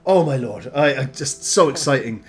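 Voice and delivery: excited West Country halfling; West Country accent. Acted. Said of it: "gone straight back into West Country".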